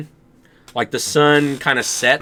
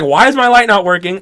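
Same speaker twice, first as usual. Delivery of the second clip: raised, loud mock panic; retold panicky question, pitched up; freaking out; 6 semitones higher, 5 dB louder than usual. Dreamer retelling the light not working, freaking out. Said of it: "And I'm freaking out here".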